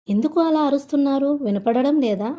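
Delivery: mildly irritated protest. A narrator's reading. Nalini asking why she is shouting, mildly irritated.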